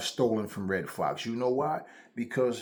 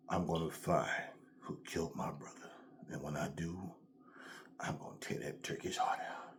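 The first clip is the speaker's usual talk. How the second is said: low, hushed vow with long pauses; mock-dramatic revenge vow, sinking to a whisper; brooding movie avenger; 6 semitones lower, 12 dB quieter than usual. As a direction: imitate a seventies hero staring into the distance. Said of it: "They always staring into the distance".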